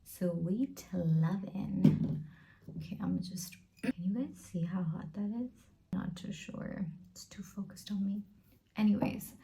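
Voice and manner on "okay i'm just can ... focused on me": whisper. Real, not acted. Checking camera during coffee break.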